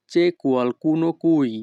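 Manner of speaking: each Italian word spoken slowly and clearly; teacher modelling Italian for learners, very slow; slow demo. Shown as a demonstration. Bengali teacher models Italian phrase for students, slow and careful. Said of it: "Italian phrase demo".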